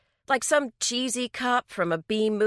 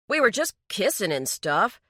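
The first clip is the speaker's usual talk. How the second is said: defensive; 3 semitones higher than usual. Acted. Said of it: "Daryl said defensively".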